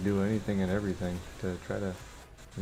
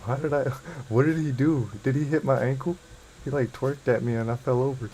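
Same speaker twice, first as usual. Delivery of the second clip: higher and louder, laughing in disbelief; startled laughing outburst; 5 semitones higher, 5 dB louder than usual. Real, not acted. To teammates after being knocked over, laughing loudly. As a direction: cry out, amused at being knocked down.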